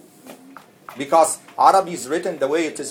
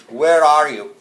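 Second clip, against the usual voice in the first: angry way; 7 dB louder, slower than usual. Shown as a demonstration. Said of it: "He said in an angry way".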